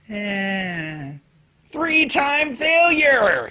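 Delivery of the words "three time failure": slow, drawn-out high mocking shout. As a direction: jeer it out slowly like a taunt. Mocking the loser lead.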